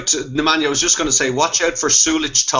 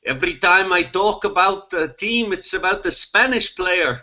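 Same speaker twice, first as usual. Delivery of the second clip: a hint of a bad Spanish accent, higher; 3 semitones higher than usual. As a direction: lightly mimic a Spanish colleague's accent. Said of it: "that was the worst Spanish accent ever".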